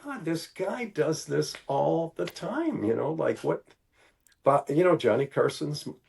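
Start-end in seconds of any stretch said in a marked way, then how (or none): 0.0-2.8 amazed disbelief. Retold or imitated. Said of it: "I'm like".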